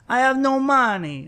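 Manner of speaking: high, loud mock wail; wailing roommate. Roommate imitating her complaint to police, high mock wail.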